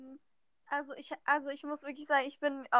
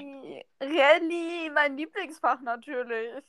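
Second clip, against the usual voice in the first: sarcastic; 4 dB louder, slower than usual. Real, not acted. Sarcastic remark about hated subject.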